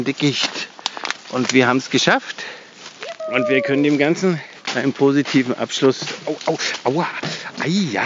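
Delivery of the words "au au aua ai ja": sudden pained ows; wincing in pain; getting a leg cramp. Real, not acted. Pain while leaving thicket.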